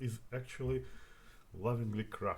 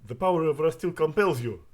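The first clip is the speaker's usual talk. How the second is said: loud, raised dramatic invocation; ringing battle cry as you cast; spell incantation; 5 semitones higher, 12 dB louder than usual. Acted. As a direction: proclaim the spell with commanding force. Casting a spell in character.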